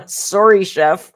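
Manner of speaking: loud, laughing "sorry"; sorry through real laughter; laughing apology. Real, not acted.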